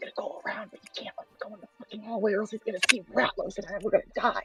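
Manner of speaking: breathy, very hushed whisper. Casting a message spell to another character: whispering a message in character. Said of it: "So I'm just gonna whisper".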